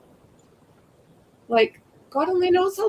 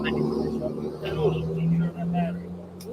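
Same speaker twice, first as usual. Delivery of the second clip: mocking drawl; 5 semitones lower, 5 dB quieter, much slower than usual. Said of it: "they're just saying".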